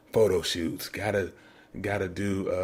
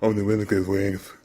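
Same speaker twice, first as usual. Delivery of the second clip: put-on country accent; 3 semitones lower than usual. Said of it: "in his country accent".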